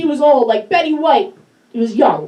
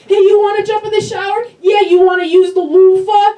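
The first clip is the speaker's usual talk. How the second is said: mock sexy dirty talk; 3 dB louder than usual. Shown as a demonstration. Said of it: "why would this voice sound sexy".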